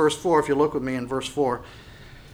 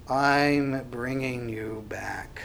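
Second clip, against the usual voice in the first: whisper; 3 semitones lower, 4 dB quieter, much slower than usual. Acted. God's promise voiced in sermon.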